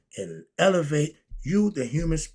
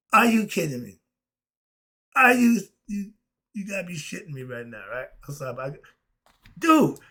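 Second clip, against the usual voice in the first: amazed disbelief; 2 semitones higher, faster than usual. Real, not acted. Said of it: "I got goosebumps".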